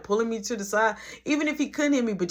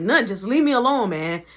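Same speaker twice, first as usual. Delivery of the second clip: louder, curt brush-off; irritated snap; 3 semitones higher, 6 dB louder than usual. Retold or imitated. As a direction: snap back, leave me alone. Snapping at coworker while mad.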